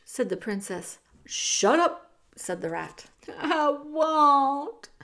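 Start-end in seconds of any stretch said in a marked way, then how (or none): 1.3-2.1 sharp rebuke. A narrator's reading. Rat cuts off the wailing girl. 3.3-4.9 higher, louder acted sobbing wail; hammed-up tearful wail. A narrator's reading. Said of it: "Meg sobbed".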